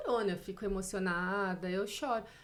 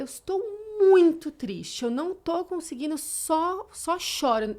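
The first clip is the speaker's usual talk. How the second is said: retold tearful plea; 7 semitones higher, 9 dB louder, slower than usual. Retelling her call to the doctor.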